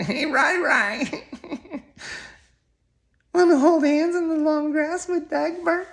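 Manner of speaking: a giggly put-on voice inviting Ryan to hold hands; mock flirty come-on. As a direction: camp it up like a coy suitor asking for a date.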